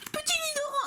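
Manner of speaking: very high little voice; cutesy squeal. Acted. Vlogger cooing over a favourite card, cutesy squeal. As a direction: squeak the name out adoringly.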